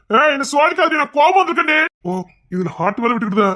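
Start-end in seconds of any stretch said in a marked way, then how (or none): 0.1-1.8 angry warning. Acted.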